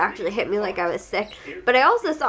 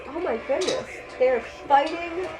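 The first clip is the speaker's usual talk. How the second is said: laughing; 6 semitones higher, 6 dB quieter than usual. Real, not acted. Birds fighting outside, laughing.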